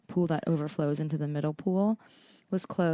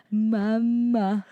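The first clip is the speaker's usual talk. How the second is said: put-on drawn-out robotic toddler voice; 3 semitones higher, 4 dB louder than usual. Mother imitating her son's first "Mama", robotic toddler voice. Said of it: "all robotic".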